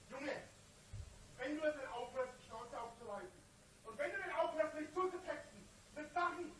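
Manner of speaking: quiet threat. Real, not acted.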